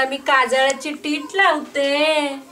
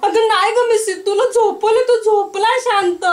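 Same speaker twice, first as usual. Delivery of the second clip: louder, breaking voice insisting; tearful insistence; 4 semitones higher, 4 dB louder than usual. Acted. Mother insists to friend her baby sleeps, tearful and louder. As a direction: plead through tears that the baby sleeps.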